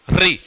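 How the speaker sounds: "री" with the tongue curled up as for ट; teacher's demo of "री" with a retroflex r. Shown as a demonstration. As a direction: say "री" with the tongue touching the ridge above the gums. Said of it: "ऊपर ट बोलते हो वैसा".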